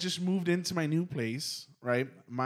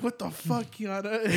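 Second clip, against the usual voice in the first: higher-pitched mock alarm; retold startled reaction; 6 semitones higher than usual. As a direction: act out being jolted awake by someone. Startled reaction to her waking, retold.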